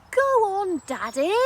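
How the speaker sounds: put-on high, loud little boy urging; eager child. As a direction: nudge daddy like a keen kid. Child nudging dad.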